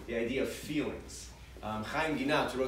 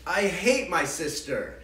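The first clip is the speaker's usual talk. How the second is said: put-on sulky child; 3 semitones higher, 4 dB louder, slower than usual. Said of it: "they'll say something like".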